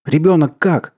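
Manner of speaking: high, anxious shouted question; yelling. A narrator's reading. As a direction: shout it urgently. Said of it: "орал Индра".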